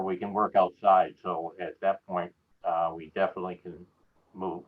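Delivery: talking around cotton after surgery; cotton in mouth. Real, not acted. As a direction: speak with cotton packed in your cheeks. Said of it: "I got cotton in my mouth from surgery this morning".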